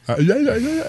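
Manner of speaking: high, shapeless mimicked syllables; pushed deaf sounds. Imitating deaf people mimicking lip movements, pushed sounds. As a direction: push out mock sounds as if lip-reading. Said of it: "they were pushing sounds".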